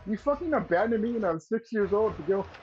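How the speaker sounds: mock furious telling-off; retold outburst. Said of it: "like, I lost my shit".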